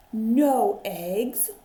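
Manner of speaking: loud dismayed cry; cried out. Acted. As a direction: call it out in disbelief. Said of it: "cried Farmer Brown".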